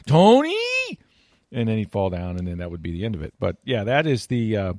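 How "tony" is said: very high, loud thrilled shout; excited Nance call. Retold or imitated. Retelling the bit a second time, high thrilled shout. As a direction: shriek the name like a thrilled announcer. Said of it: "It just get real excited".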